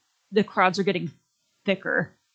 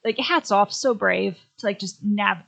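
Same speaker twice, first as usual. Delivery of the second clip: excited admiration; 3 dB louder than usual. Retold or imitated. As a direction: gush with admiration. Admiring the solo traveller.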